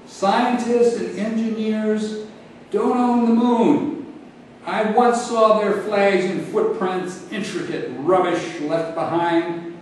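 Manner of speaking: measured epic oratory; oration begins. Acted. Figure begins his oration.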